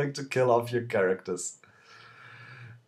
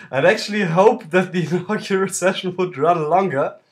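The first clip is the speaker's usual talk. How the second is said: laughing while talking; 2 semitones higher, 6 dB louder than usual. Real, not acted. Laughs at character's quick death.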